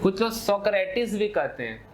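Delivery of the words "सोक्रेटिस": सोक्रेटिस said in three syllables, ending in -tis; variant pronunciation. Shown as a demonstration. Teacher showing students another way of saying the name, सोक्रेटिस ending in -tis. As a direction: give सोक्रेटिस an extra final syllable, so-kre-tis. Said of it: "कई तरीके से pronounce करते हैं".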